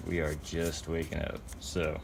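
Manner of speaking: drowsy, just woken up; sleepy morning voice; half asleep. Real, not acted. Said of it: "I'm, like, half asleep right now".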